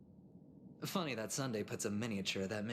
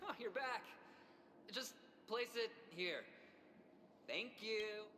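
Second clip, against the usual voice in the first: soft; 9 semitones higher, 8 dB quieter than usual. Acted. Soft high greeting on return.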